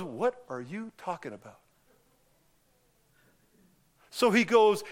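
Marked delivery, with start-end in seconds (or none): 0.0-1.6 baffled Nicodemus. Retold or imitated. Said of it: "Nicodemus looks at it and goes".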